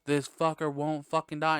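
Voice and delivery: fed-up groan of disbelief; exasperated. Retold or imitated. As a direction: sound totally over it. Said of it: "Just the sense of just like".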